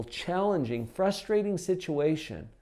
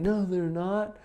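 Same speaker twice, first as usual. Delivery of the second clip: resistant inner voice; 3 semitones higher than usual. Pretend. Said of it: "the resistance that comes up from your subconscious mind".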